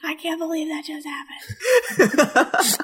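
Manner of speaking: slow, high, laughing through the words. Real, not acted. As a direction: crack up while you say it. Laughing at Ben getting burned.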